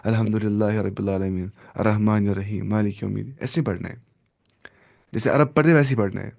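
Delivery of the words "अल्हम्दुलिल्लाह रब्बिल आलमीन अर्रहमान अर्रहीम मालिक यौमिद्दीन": mock the Kashmiri way of reading Quran; a hint of Kashmiri accent on Arabic. Shown as a demonstration. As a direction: recite in a light Kashmiri accent, not Arab style. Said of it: "Kashmiri accent में, ऐसे".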